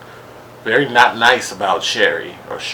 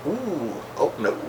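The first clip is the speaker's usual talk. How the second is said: mock fake shock; 5 semitones higher, 7 dB quieter than usual. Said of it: "it's not real when she does it".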